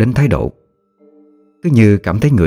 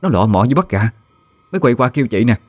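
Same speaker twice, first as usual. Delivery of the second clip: higher, fussing village woman complaining; angry neighbour woman; 6 semitones higher than usual. A narrator's reading. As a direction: neighbour fuming about stolen chickens. Neighbour Tư Hiền voiced. (giọng bà hàng xóm bực tức, cao)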